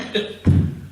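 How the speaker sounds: brief chuckle; short laugh. Real, not acted. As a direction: break off into a quick chuckle. Laughs at his own imitation.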